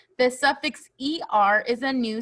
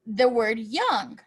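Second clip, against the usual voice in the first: slow emphasis; slower than usual. Shown as a demonstration. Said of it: "Let's look at the word".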